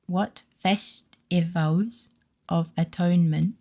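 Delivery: slow cutesy uwu reading, r into w. Acted. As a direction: read it in baby-talk uwu speak. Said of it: "putting the Uwu message in, and I'll try to read it".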